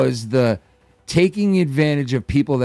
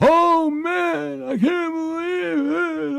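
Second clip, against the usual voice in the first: very high, slow, put-on announcer voice. Imitating Joe reacting to a three hundred dollar donation, in Joe's announcer voice. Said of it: "he has on the announcer voice".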